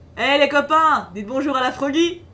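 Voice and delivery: loud, high hollering call.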